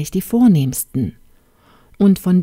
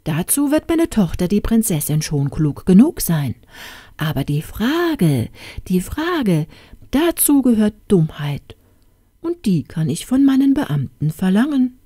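much higher royal pronouncement; pompous king; 4 semitones higher than usual. Acted. King explaining the question to his vizier. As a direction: declare it with royal self-satisfaction.

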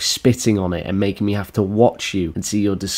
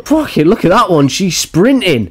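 amused excitement; 10 semitones higher, 5 dB louder than usual. Real, not acted. Commenting on the streamer sprinting after the thrower, excited. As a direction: call it out high, stretching the final word.

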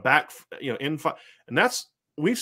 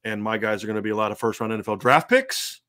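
lightly voiced coach's pitch that builds to a crescendo on each line; Harry Hiestand impression; 3 semitones lower than usual. Offensive line coach pitching a quarterback recruit, mild building crescendo. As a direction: sell the recruit, letting each phrase swell a little. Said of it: "'cause Harry had that crescendo".

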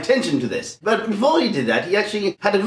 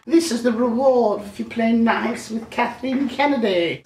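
evil queen voice; 5 semitones higher than usual. Pretend. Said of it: "like the queen".

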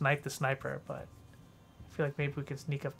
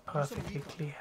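whispering; 4 dB quieter than usual. Real, not acted. Sneaking during stealth play.

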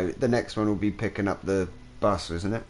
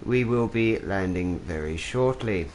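flight attendant. Pretend. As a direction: play the pilot addressing passengers. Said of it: "Sorry, I don't know why I did that".

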